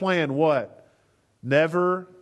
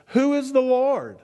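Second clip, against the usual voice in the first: scornful Pharaoh; 6 semitones higher than usual. Retold or imitated. Pharaoh voiced, defiant question.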